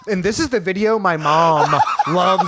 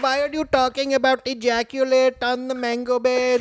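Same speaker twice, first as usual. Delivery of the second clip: mock scolding mom; 6 semitones higher than usual. Mom scolding son's jokes.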